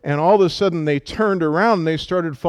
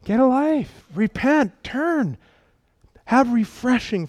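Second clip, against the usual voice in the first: higher, punchier get a life; urging; 7 semitones higher than usual. Shown as a demonstration. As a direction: pitch "Get a life" up, stress on a. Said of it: "I just want to see if you do it".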